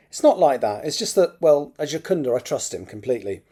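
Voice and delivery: measured, expressive novel reading; story narration. A narrator's reading. Author reads a draft chapter aloud, story narration. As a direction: read it out as an audiobook narrator.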